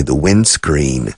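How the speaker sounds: "the windscreen" said slowly and carefully; British word windscreen. Shown as a demonstration. Teacher slowly models "windscreen" for students. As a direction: spell out "windscreen" for Spanish learners. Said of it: "as the British say".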